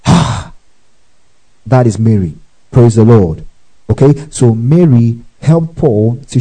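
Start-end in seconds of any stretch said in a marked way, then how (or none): 0.1-0.5 a spent, worn-out "ah"; mock gasp of total fatigue, pitched high; exhausted gasp. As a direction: let out the breath of someone toiled to exhaustion. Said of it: "Till you go".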